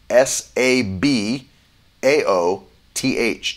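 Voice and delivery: each letter slow and separate; S A B A O T H slowed right down; slow spelling. Shown as a demonstration. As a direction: spell it out slowly for the listeners. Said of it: "That's S A B A O T H".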